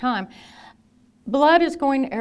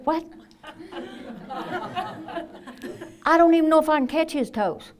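laughing disbelief; 6 semitones higher than usual. Retold or imitated. Nurse student's disbelief, laughing.

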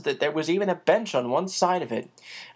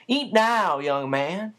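put-on higher, brisk old housekeeper; a busy motherly woman teasing the boy; bustling housekeeper; 5 semitones higher, slower than usual. Becky teases Chris about being hungry, higher housekeeper voice.

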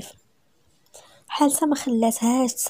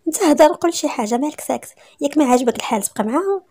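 higher, pressing demand for an answer; indignant confrontation; 5 semitones higher, 4 dB louder than usual. Acted. Wife confronts her silent husband about another woman, indignant. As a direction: challenge him with rising indignation.

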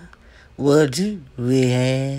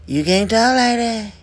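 firm repeat; 4 semitones higher than usual. Shown as a demonstration. Scolding a gossiper, firm emphatic warning. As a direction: scold harder the second time, leaning on "talk".

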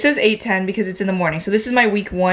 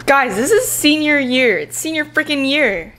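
excited; 5 semitones higher than usual. Real, not acted. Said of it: "excited, but, like, nervous excited".

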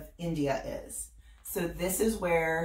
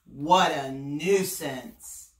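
annoyed crocodile; 2 semitones lower, much slower than usual. Acted.

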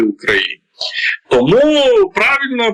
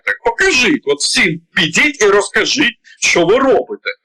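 higher-pitched retold demand; insistent challenge; 7 semitones higher than usual. Israeli leader challenging the negotiators, insistent. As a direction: press the point in a raised pitch.

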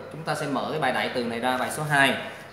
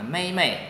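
"mây, mây" stressed first, light second; light second syllable; 3 semitones higher, faster than usual. Shown as a demonstration. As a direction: fall firmly on the first "mây", soften the second. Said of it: "Chữ mây phía sau đọc nhẹ".

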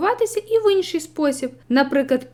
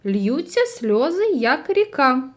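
slow, scanning each stressed syllable of Льються сльози, як ріка; rhythmic stress; slower than usual. Shown as a demonstration. Teacher demonstrates verse rhythm, slow and scanned. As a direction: tap out the beats of як ріка slowly. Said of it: "Наприклад".

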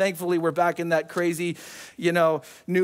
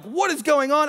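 higher-pitched, bewildered demand; retold alarm at the scene; 7 semitones higher than usual. Rushing in after the crash.

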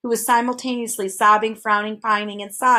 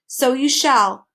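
slow, loud, stately announcement; drawn-out formal pronouncement; announcing; 4 semitones higher, 5 dB louder, slower than usual. A narrator's reading. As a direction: proclaim it grandly, stretching each word. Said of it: "announced the dodecahedron".

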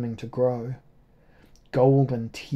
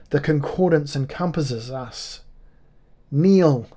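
ringing proclamation; 3 semitones higher, 4 dB louder than usual. Acted. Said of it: "Her voice rang like a golden bell".

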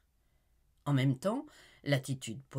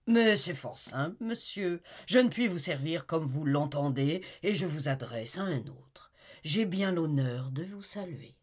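coldly courteous, a bit raised; curt polite dismissal; 3 semitones higher, 5 dB louder than usual. Acted. Talleyrand showing Olivier out, with cold courtesy. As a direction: show him the door with icy politeness.

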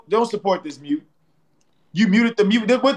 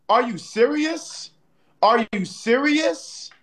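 drawn-out disbelief; 4 semitones higher, slower than usual. Real, not acted. Disbelief at the battle, repeated.

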